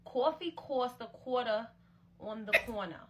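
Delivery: New York accent. Shown as a demonstration. Podcast host tries a New York accent test. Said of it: "I have a thick New York accent".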